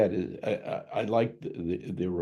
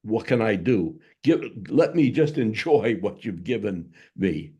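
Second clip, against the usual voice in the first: mock plea; 4 dB louder than usual. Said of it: "a plea for mercy".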